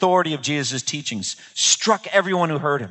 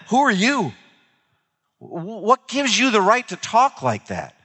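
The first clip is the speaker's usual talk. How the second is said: high-pitched, incredulous demand; indignant challenge; 8 semitones higher than usual. Acted. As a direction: act out an affronted crowd challenging the speaker's authority. Crowd's challenge to Jesus acted out.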